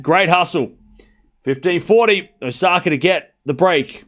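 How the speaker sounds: running tennis commentary, lifting at each shot; live play-by-play. Real, not acted. Tennis streamer calls the rally for viewers, live play-by-play. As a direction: build through the rally to the call.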